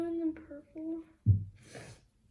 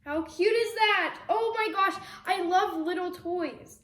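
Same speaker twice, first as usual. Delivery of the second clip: excited; 4 semitones higher, 5 dB louder than usual. Real, not acted. Gushing over toys.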